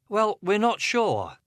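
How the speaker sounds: put-on high, slow, voice pitched over a crying baby. A narrator's reading. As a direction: lift the voice above the baby's din. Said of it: "pitch her voice over the baby's din".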